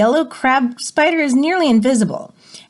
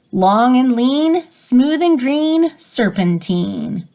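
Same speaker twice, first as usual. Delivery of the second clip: riddle poem read aloud. Acted. Reads the snake riddle poem.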